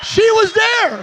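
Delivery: she was there, drawn out and loud; loud slow callout. Real, not acted. Pastor to crowd, pointing out his wife, slow loud callout.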